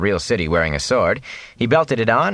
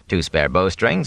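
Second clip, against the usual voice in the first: ordinary delivery, nothing marked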